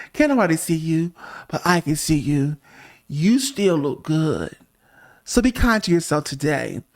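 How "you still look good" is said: slow, gentle compliment; tender reassurance. Real, not acted. Host comforts viewer in pajamas, slow and gentle.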